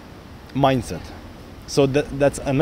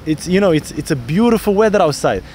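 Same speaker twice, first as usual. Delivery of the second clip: enthusiastic demo; 3 semitones higher than usual. Shown as a demonstration. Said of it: "we should have big energy".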